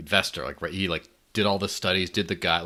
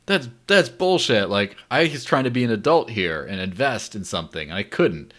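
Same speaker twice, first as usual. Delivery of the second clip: indignant; 3 semitones higher, 4 dB louder than usual. Retold or imitated. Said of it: "he's just like".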